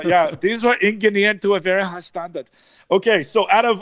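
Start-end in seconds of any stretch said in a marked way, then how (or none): 0.4-2.5 higher, put-on German accent; bad German accent. Car host reading the listing in a bad German accent. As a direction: praise German engineering in a hammy German accent. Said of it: "and my bad accent".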